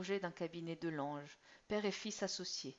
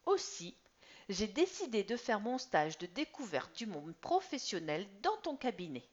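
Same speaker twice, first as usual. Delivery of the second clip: put-on higher, louder proud boy; sure and smiling; 3 semitones higher, 6 dB louder than usual. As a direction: announce it with a smile. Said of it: "sûr et souriant".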